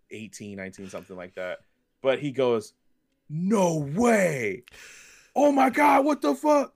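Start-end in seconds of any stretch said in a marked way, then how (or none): 3.3-6.7 imitating a young fan's high, loud squeal of disbelief; freaking out. Young fan spots a rare figure on the shelf, high excited squeal. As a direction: squeal it like you just found a rare toy. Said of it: "He's just freaking out".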